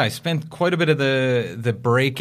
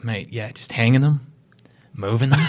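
imitated casual South African accent. Agent voicing the manager's explanation, South African accent. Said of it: "I gotta do the accent for this part".

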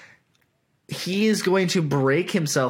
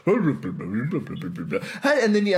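glitchy audio imitation; much slower than usual. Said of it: "then it would go".

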